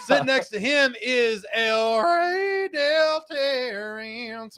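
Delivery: announcer voice. Acted. Announcing co-host.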